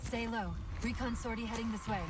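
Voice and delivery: hushed warning. Acted. Hiding from approaching enemy.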